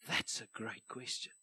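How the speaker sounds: put-on quiet, measured British accent. Pitcher on Dragons' Den answering investors, British accent. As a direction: put on your best British voice, softly and low. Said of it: "my best British accent".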